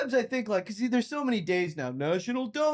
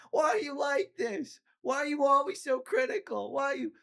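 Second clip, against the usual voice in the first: mock hysterical; 6 semitones higher than usual. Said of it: "She starts getting hysterical, crying".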